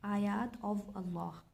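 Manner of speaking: आयात of Allah said slowly, each word set apart; slow model translation. Shown as a demonstration. Teacher showing students the translation, slow and deliberate. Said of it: "इसकी translation ऐसे बनेगी".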